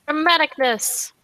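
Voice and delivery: hushed, unvoiced stage whisper; mock-dramatic whisper. Player reacting to the game master's cliffhanger, mock-dramatic whisper.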